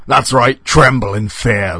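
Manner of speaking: a hint of mocking menace; gloating. A narrator's reading. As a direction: gloat slowly over frightened prey. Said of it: "laughed the door".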